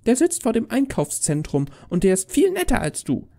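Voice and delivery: put-on high child voice; cheeky little girl. Girl telling Santa the other is nicer, cheeky.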